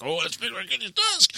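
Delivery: new hire gawking at a hero's desk, starstruck; awed fan. Retold or imitated. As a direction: point out the desk like a fan at a shrine. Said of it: "I'm like".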